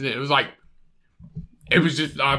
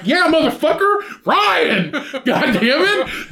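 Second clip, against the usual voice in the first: mock angry shout; 9 semitones higher, slower than usual. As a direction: shout it out, annoyed, half laughing. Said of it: "And I was like".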